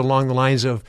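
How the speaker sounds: ordinary talk, nothing marked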